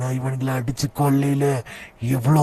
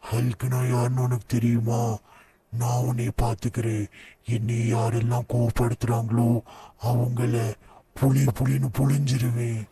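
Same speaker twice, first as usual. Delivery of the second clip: Hulk voice; 4 dB quieter than usual. Acted. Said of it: "நான் தான் Hulk".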